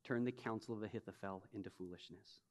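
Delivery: low, soft plea to God; quiet prayer. Retold or imitated. David praying when he hears of the betrayal, soft prayer. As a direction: pray it simply and quietly. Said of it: "his first response".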